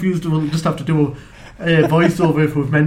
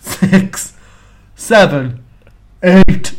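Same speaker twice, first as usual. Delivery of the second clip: different tones; 6 dB louder, much slower than usual. Shown as a demonstration. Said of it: "do them at different tones as well".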